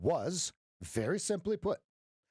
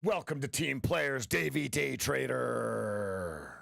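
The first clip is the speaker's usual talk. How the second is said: lower, slow drawn-out announcer name; announcer intro; 3 semitones lower, slower than usual. Pretend. Welcoming a viewer like an announcer, low and slow. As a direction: introduce him like a ring announcer.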